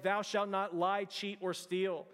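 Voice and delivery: slow, weighted commandment, each word landed; emphatic command. Shown as a demonstration. Preacher quotes a commandment to church, slow and emphatic. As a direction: lay it down like law, slowly. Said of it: "emphatic command".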